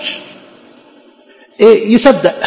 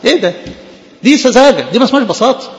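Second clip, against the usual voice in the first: emphatic rebuke; 5 semitones higher than usual. Real, not acted. Preacher rebuking naive belief.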